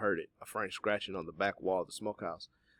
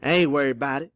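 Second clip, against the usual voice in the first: lightly amused, higher character voice; light laugh, then a raised-pitch reply; quiet laughing; 7 semitones higher, 11 dB louder than usual. A narrator's reading. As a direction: toss it off with a small chuckle. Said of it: "Cato laughed quietly".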